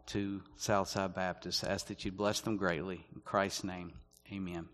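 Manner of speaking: soft, low-key public prayer. Real, not acted. Preacher asking God for grace before reading, hushed prayer.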